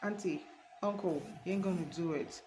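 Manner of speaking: softly voiced inner prompting; imitated whisper to the heart. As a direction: drop the volume, like a mild warning in the ear. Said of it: "whispering to your heart".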